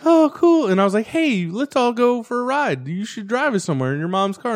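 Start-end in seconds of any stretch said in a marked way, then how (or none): 0.0-0.7 high, loud, gullible delight; imitated girl. Girl pleased the buddy came over, mock delight. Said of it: "she's all like". 1.1-4.5 coaxing. Retold or imitated. Luring her into a ride.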